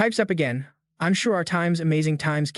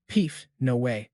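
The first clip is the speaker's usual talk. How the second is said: scoffing; 4 semitones lower, slower than usual. A narrator's reading. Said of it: "just scoffs".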